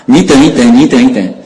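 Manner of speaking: mildly mock-shout it back to the pursuer; retold calling back. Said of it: "释迦牟尼佛跟他喊".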